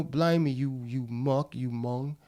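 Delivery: a loud, playful imitation of Cockney street slang. Actor imitating London street talk for the host, mock Cockney. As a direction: throw out Cockney insults like a London geezer. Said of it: "which they call Cockney".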